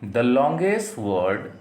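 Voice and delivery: very slow, word by word; slow dictation. Shown as a demonstration. Teacher dictating to students, slow and deliberate. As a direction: read it out slowly so students can write.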